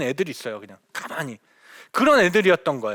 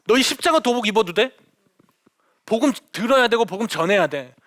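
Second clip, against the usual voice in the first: a retold scolding, a bit raised and firm; mock angry outburst; 3 semitones higher than usual. Missionary retelling how she scolded her Muslim students, mildly mock angry. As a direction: snap at the students in a half-acted temper. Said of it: "버럭 화를 냈어요".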